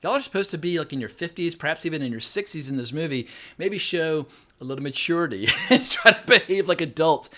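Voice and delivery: put-on fed-up critic lecturing the childish screen couple; exasperated scolding. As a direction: scold the characters like a fed-up parent. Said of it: "I'm like".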